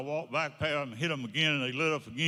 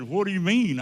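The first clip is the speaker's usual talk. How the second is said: retold incredulous challenge; 6 semitones higher, 6 dB louder than usual. Boss challenges the salesman's claim.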